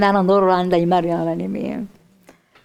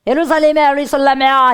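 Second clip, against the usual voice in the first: high, loud wail of "예루살렘아, 예루살렘아"; lamenting cry; 5 semitones higher, 5 dB louder than usual. Retold or imitated. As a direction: cry out over the city in grief. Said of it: "이래요".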